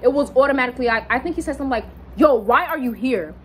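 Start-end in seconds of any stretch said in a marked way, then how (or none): 2.2-3.3 mildly imitating his instant attitude; a touch of disgust at an unwelcome visitor. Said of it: "automatic attitude, like he was disgusted".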